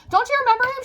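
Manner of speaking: high-pitched imitation of a cousin; retold incredulous prodding. Cousin prodding narrator about Uncle Chester, high incredulous voice. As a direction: lightly mimic her surprise up high.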